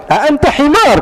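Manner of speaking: high, indignant Arabic retort; angry shout. Retold or imitated. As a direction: hurl the insult.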